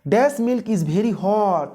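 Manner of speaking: slow, spaced-out read with a blank; slow quiz reading. Shown as a demonstration. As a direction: read the blank slowly for students. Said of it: "क्या होगा?". (धीमे से खाली जगह वाला वाक्य)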